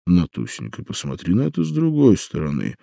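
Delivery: soothing, placating stepfather; calm her down gently; conciliatory. Acted. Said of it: "примирительно начал отчим".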